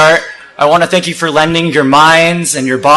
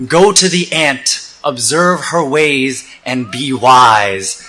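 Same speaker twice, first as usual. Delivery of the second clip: solemn quotation; 2 semitones lower, 3 dB quieter, much slower than usual. Acted. Speaker quoting Solomon to the crowd, solemn and slow. Quotes Solomon, first reflective take.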